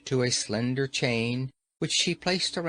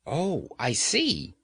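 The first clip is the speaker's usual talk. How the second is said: slow, relieved Oh, I see; 3 semitones higher, slower than usual. A narrator's reading. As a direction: let the worry drain out slowly. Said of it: "much relieved".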